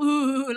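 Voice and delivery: mock shuddering "huh, huh, huh"; comic shivering noises; imitated trembling. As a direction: act out a husband quaking after being scolded. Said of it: "langsung Parkinsonnya kumat".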